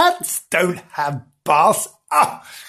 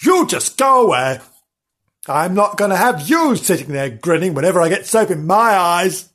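lightly voiced cross dog. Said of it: "said Nobbs".

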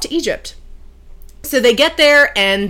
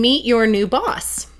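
laughing; 3 semitones higher, 3 dB louder than usual. Retold or imitated. Gleefully springs the surprise.

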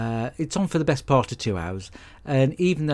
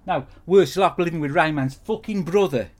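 angry rant; 6 semitones higher than usual. Acted. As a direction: rail at him like he's unbearable. Ranting at roommate.

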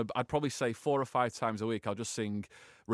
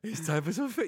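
silly cat voice; 5 semitones higher than usual. Shown as a demonstration. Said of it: "be stupid with the cat and be like".

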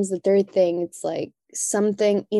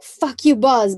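higher and louder mock snap; mock angry retort; 5 semitones higher, 5 dB louder, slower than usual. An employee shouting back at a screaming boss, mock angry. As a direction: fire it back at the boss, high and loud. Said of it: "Instead of being like".

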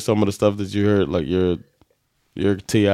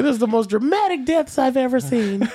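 put-on amused boy king. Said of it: "He's like".

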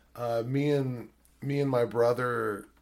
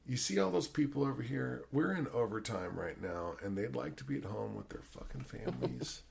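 put-on softly, lowered voice, guilt-tripping the kid; a hushed, heavy lecture to a child actor; director's quiet guilt trip; 6 dB quieter than usual. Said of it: "he goes".

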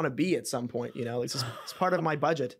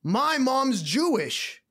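very slow, higher dopey voice; Homer Simpson voice; 9 semitones higher, 4 dB louder, much slower than usual. Retold or imitated. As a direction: drag it out like a dazed bartender. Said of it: "he's like".

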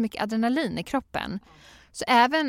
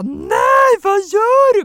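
much higher, louder cry of alarm; alarmed shout; 13 dB louder, much slower than usual. Retold or imitated. Mother shouting at toddler sitting on baby, high and loud. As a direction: yell it like catching a child on the baby.

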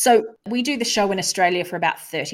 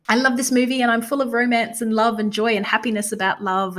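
super sweet; 3 semitones higher than usual. Retold or imitated. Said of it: "super sweet".

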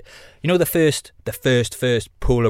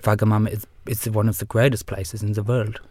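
put-on Sven accent at his usual pitch. Guest stays in character as his alter ego, put-on accent. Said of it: "putting on the fucking accent".

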